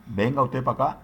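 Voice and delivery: light Chincha countryside accent; Chincha rural accent. Shown as a demonstration. Teacher voicing a Chincha villager, lightly put-on rural accent. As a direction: drop into a Chincha villager's speech. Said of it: "cuando el hablante dice".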